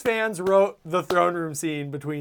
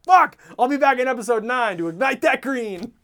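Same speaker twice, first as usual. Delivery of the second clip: laughing mock Luke; 6 semitones higher than usual. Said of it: "he's like".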